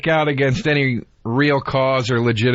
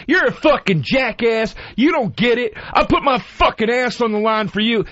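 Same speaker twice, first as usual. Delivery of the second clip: mock scream; 8 semitones higher than usual. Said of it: "starts screaming at me".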